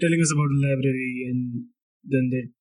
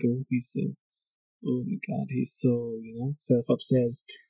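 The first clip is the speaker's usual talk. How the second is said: softer, snooty put-on accent mocking classmates; 6 dB quieter than usual. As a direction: imitate how judgy college kids sound, in a put-on accent. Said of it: "I don't know why I use the accent".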